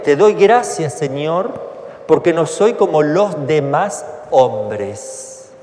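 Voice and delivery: loud, slow, boastful prayer, stress on doy; hammed-up pious boast; smug pharisee. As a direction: proclaim your own goodness to God. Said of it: "Fíjense".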